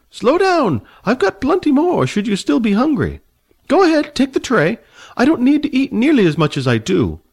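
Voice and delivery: put-on high, fussy old man, haughty and annoyed. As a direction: play the prickly old dragon rider, voice pitched high. Old man offers food.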